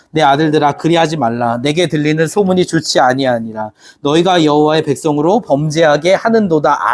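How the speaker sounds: steady, measured scripture read-aloud. Acted. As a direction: read the verse together, evenly. Congregation reads scripture aloud.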